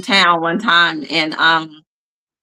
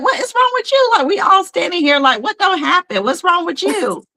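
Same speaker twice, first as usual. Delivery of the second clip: mock exasperated parent; 11 semitones higher than usual. Parent scolding dramatic daughter.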